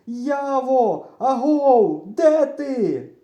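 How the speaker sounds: high, loud searching calls; full-throated shouting. A narrator's reading. Boy hollering for his lost friend, full-throated shouting. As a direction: holler out to find someone. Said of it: "кричу я на повну губу".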